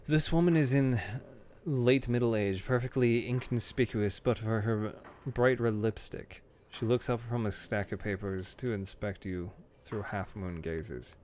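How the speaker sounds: measured scene-setting narration; game master narration. A narrator's reading. Game master describing a librarian to the players, measured. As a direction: set the scene for the players, unhurried.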